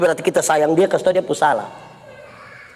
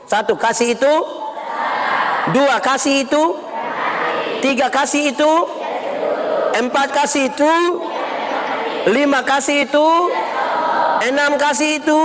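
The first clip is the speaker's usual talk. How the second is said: raised, chant-like sermon listing; preaching recitation; 6 semitones higher than usual. Real, not acted. Pastor listing what love is, preaching recitation. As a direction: count out each point in a high preacher's voice.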